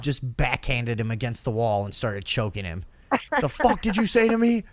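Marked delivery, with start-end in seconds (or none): 3.4-4.6 higher-pitched mock angry father; hammed-up parental outrage; enraged dad. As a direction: imitate a dad demanding an answer. Voices enraged father confronting his son.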